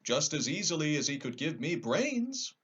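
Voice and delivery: a straw man protesting; lightly voiced scarecrow.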